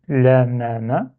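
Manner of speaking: "la, ma, ma" as simple undoubled syllables; without shadda. Shown as a demonstration. Teacher reading with shadda erased, "la, ma, ma" in plain syllables. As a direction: say "la, ma, ma" with no held m. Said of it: "j'efface shadda dans un premier temps".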